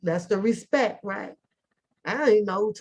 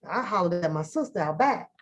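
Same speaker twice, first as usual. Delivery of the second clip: normal talking voice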